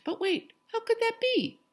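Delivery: high, loud disbelief; surprised. A narrator's reading. Narrator voicing villagers' disbelief, surprised. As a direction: gasp out the question.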